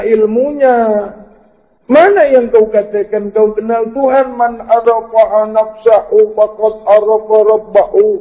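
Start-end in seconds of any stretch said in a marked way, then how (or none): 4.3-8.1 Arabic recitation. Real, not acted. Quoting Arabic saying in sermon.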